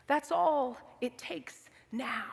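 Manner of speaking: slow breathy whisper of the echo; whispered slowly. Shown as a demonstration. Repeated line, second take whispered.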